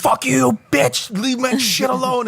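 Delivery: high-pitched, hammed-up outraged squeal; retold high-pitched angry protest; mock furious. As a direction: imitate a man losing it, voice shot way up. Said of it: "he gets so mad".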